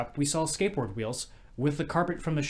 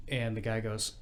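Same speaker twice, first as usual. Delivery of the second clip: ordinary talk, nothing marked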